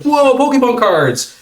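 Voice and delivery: high, drawn-out wow; excited kid. Retold or imitated. Host imitating kids getting cards, excited. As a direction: imitate an amazed child, slow and high. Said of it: "every kid had a great reaction".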